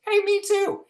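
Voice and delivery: high, loud laughing quip; laughing director. Retold or imitated. The director answering the blacksmith's joke, high laughing quip. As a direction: toss it back with a laugh. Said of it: "and she goes".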